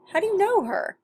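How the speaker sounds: put-on the father presses the boy, alarmed; urgent question. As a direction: demand to know, alarmed.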